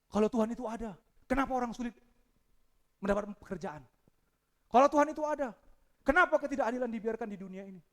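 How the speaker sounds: questions rising from firm to shouting; building shout. Retold or imitated. Boy asking the pastor, building to a shout.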